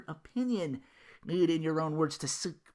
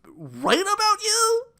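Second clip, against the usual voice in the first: incredulous jab; 8 dB louder, slower than usual. Real, not acted. Mocking incredulous rhetorical jab.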